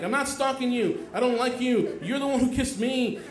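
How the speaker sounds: hammed-up high, loud protest; screaming. Retelling his outburst at the girl who kissed him, screaming. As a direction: yell each line at her, indignant. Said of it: "screaming at her".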